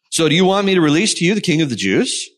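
sarcastic. Acted. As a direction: toss the question off with dry sarcasm. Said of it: "you have to understand the sarcasm there".

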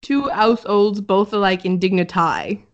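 Shakespearean original pronunciation accent, vaguely Scottish; shaky attempt at a Scottish-like Shakespearean accent. Shown as a demonstration. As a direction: try an original pronunciation accent, "dignity" ending like "tie". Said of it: "gonna try and imitate what Ben Crystal".

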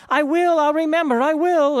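high, loud eager promise; eager cry. A narrator's reading. Cinderella crying out her promise to the godmother. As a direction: call it out gladly. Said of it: "cried Cinderella".

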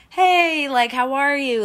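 high, loud imitated "hey"; enthusiastic greeting. Rapper hugs her on recognizing her, high effusive greeting. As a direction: mimic a big hello, high and gliding down.

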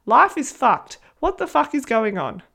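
exasperated rant read from a journal; venting frustration. Retold or imitated. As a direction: let off steam, half-hammed. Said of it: "other pages where it's life, like".

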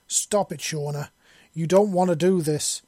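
high, loud plea to stop; pleading yell. A narrator's reading. Malachi tries to stop enraged Shauna, loud pleading yell. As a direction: shout her down, trying to calm her. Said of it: "Malachi yelled".

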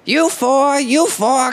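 high calling-out preacher voice. Acted. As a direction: hail the passers-by. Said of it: "unwashed preacher".

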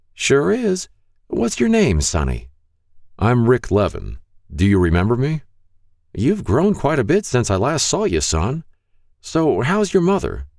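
put-on high, frail old man voice; Mister Hall's frail voice. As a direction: speak like a frail elderly shopkeeper. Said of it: "a frail voice said".

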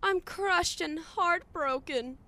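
put-on sarcastic girl voice. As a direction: fake a pout.

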